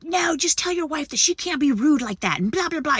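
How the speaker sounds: high-pitched mocking imitation; mock complaining man. Angry man tells husband his wife was rude, mockingly imitated. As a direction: mimic him whining on, blah-blah style.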